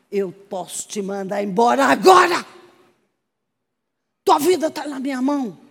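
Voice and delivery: retold threat building to a shout; threaten, then burst out on the last word; angry commander. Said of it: "Aí ele ficou com uma raiva". (ameaça furiosa, imitando o comandante aos gritos)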